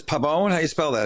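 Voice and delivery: mock her suspicious question; imitating the attorney. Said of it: "She says".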